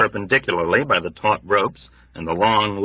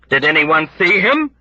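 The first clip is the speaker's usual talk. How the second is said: sneering demand; 7 semitones higher, 4 dB louder than usual. Acted. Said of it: "demanded with sneering fervor".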